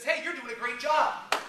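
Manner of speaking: hammed-up encouragement; mock cheery praise. Speaker praising the bank teller, slow cheery praise.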